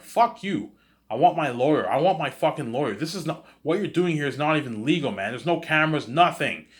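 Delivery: high, loud furious outburst; defiant yell. Retold or imitated. Teen defying Agent Smith in interrogation, angry shout. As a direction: spit it at the agent, demanding a lawyer.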